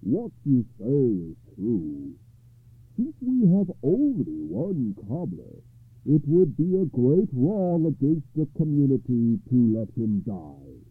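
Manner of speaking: deliberate, weighty ruling; lightly voiced judge holding forth; solemn judge. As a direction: pronounce the verdict in measured phrases. Judge gives his reconsidered ruling.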